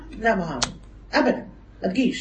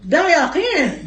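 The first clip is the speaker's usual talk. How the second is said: slow emphatic; 2 semitones higher, much slower than usual. Real, not acted. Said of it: "repeated for emphasis".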